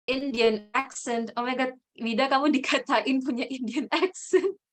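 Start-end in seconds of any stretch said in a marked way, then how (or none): 2.3-4.6 amused, words breaking into laughter; laughing tease. Real, not acted. Teasing Wida about her accent. (menggoda sambil tertawa)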